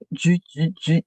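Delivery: short repeated "ju" sounds; imitated jabbing noise. Shown as a demonstration. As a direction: mimic a needle punching through wool. Imitates needle mashing wool.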